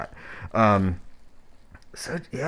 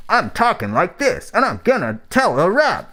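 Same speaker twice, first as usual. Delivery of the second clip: high sing-song rap inflection, pitched up; mock nerdcore sing-song; 8 semitones higher than usual. Streamer mocking nerdcore rappers' style, high sing-song. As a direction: parody the nerdcore rapper's bouncy lilt. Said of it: "who rap like this".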